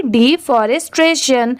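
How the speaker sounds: "डिफॉरेस्टेशन" as one word, without breaks; joined up. Shown as a demonstration. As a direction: run the parts of "डिफॉरेस्टेशन" together, still carefully. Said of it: "इसे speed में पढ़ेंगे". ("डिफॉरेस्टेशन" को जोड़कर, बिना रुके)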